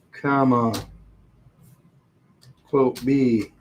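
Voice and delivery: reading a formula out piece by piece; dictating. Shown as a demonstration. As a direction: call out each part while typing. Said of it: "And I'm gonna say".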